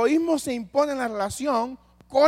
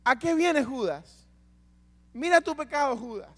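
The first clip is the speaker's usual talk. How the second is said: firm confronting Jesus; 5 semitones higher than usual. Acted. Jesus confronting Judas with his sin, raised and firm. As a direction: confront him with the truth, but kindly. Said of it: "oportunidad de confesar su pecado".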